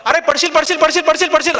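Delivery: high, rapidly repeated mock warning cries; imitated crowd clamour. Crowd heckles the pole climber to distract him, mock clamour. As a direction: imitate onlookers calling up to a climber. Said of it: "खालचे लोक ओरडतात".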